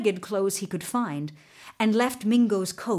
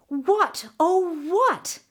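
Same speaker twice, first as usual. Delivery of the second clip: higher-pitched, emphatic wondering; puzzled searching; 8 semitones higher, 3 dB louder, much slower than usual. A narrator's reading. Narrator wonders for the searchers what is out of place, puzzled. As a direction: cast about for the answer, voice lifted.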